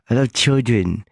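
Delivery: imitating an odd way of saying "children"; lightly mock the weird pronunciation of "children"; a singer's odd "children". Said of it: "really weird way of saying children".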